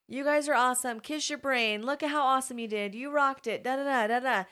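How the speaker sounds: high, bubbly praise for the class; mock teacher cheer. Teacher cheering her class on, high and bubbly. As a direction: hype the kids up like a cheering teacher.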